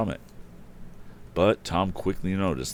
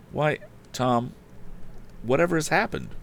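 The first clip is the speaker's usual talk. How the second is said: put-on high, flustered old housekeeper; startled housekeeper; 10 semitones higher than usual. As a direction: fuss like an alarmed housekeeper.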